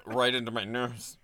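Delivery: talking through a suppressed burp; stifled burp. Real, not acted. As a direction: burp held back into the nose. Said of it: "I'm trying to hold back burp".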